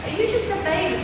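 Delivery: high, loud cooing. Real, not acted. Trainer fussing over a new puppy, high-pitched baby talk.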